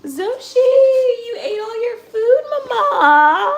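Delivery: high, loud, slow call. Real, not acted. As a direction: call out loudly across the room. Calling out to a pet.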